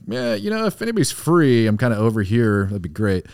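high, breezy understated ask for backup; mock casual radio call. Soldier on the radio calling his team, mock casual. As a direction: play it cool on the radio, voice up high.

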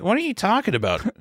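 put-on high, baffled teen girl; confused schoolgirl. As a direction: squeak out her confusion. Confused student.

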